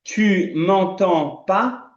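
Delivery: very slow, lips closed French; very slow demo. Shown as a demonstration. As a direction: drag it out so they copy each sound. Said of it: "pronuncia comigo". (bem devagar, com lábios fechados)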